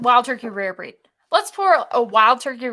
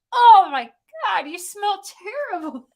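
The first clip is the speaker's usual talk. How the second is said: talking to a dog; 8 semitones higher, 5 dB louder than usual. Real, not acted. Scolding stinky dog.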